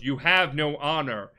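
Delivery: retold accusation. Uncle rebukes Jin as they face off, accusing. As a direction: act out a forceful accusation.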